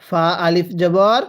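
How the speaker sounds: ফা আলিফ জবর read slowly, with the fa held for one alif; slow one alif stretch. Shown as a demonstration. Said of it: "আমার সাথে পড়বেন".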